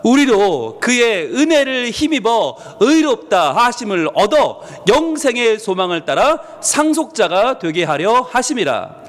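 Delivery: slow, measured reading of the verse, leading the congregation; a deliberate congregational scripture read; slow scripture recitation. Shown as a demonstration. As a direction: lead the room through the verse slowly and solemnly. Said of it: "우리 같이 한번 외쳐볼까요".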